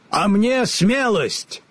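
slow, high timid lion. A narrator's reading. The Lion asks for courage, slow. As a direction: ask shyly like a cowardly lion.

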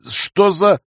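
stunned disbelieving question; astonished. Acted. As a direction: react in sheer amazement. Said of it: "изумился я".

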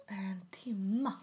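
slow, drawn-out retold disbelief; incredulous. Customer told to wait, incredulous. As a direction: stretch the question in mild disbelief.

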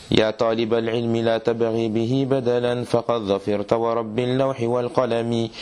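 metrical, chant-like Arabic verse reading; steady scholarly recital of rhymed couplets; poem recitation. Acted. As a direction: recite the verses in an even, flowing cadence.

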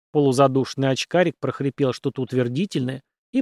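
usual speaking voice

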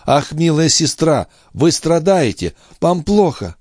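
high, urgent alarm for his sister; alarmed cry. A narrator's reading. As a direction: cry out in fear for her. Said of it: "вскричал Филипп".

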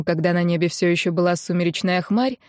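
ordinary delivery

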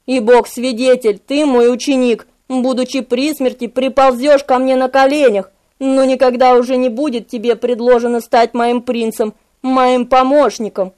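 low-key solemn curse; a hint of a demon passing sentence; lightly voiced Memnoch, bitter. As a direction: pronounce it gravely, with restraint. Memnoch curses his pupil.

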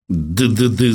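stammered mild spite; a touch of malicious sputtering; spiteful. A narrator's reading. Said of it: "заговорил Персиков злобно".

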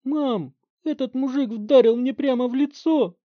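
high, loud whine through blood; whining bloodied teen. Acted. Barry complaining to his mother, choking whine. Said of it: "захлёбываясь в собственной крови".

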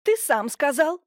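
defensive, indignant retort; indignant comeback; bristling. A narrator's reading. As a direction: snap back at him. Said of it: "взъерошилась Семёновна".

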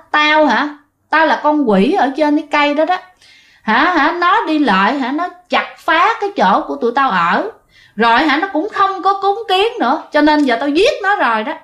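a spirit bragging about the killing; tree demon's voice. Retold or imitated. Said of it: "cái tràng cười kinh dị".

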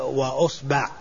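وأصبع as "wa-usba'"; short "a" after the b in وأصبع; fatha on ba. Shown as a demonstration. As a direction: say وأصبع with "u" first, "a" second. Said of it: "مع الحركات الثلاث في الباء".

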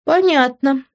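a lightly drawn-out "Понятно". A narrator's reading. Heroine to Grant, a mild drawn-out reply. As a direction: stretch the word a little, unimpressed. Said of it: "протянула я".

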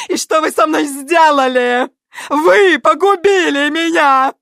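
high, loud, slow hysterical wail of a diva; hammed-up tragic actress screaming blame; hysterical shrieking. A narrator's reading. Natali screams her grievances at her son, high hysterical wail. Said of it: "завизжала".

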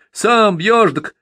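whiny high mimic of a boy; mock the boy's whimper; mocking mimicry. A narrator's reading. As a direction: drunk mimicking a sniveling boy. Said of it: "передразнил Петр".

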